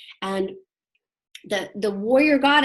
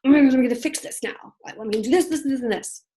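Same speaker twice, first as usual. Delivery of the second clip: wound-up, frantic urge to fix everything; tense overdrive; 3 semitones higher, 4 dB louder than usual. Acted. Teacher acting out an overdriven self for the class, tense and wound-up. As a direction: push it out tense and insistent. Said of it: "tense, contracted overdrive".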